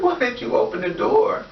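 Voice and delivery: high-pitched tearful protest, retold; mock crying. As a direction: imitate a crying child's complaint. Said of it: "I would just cry".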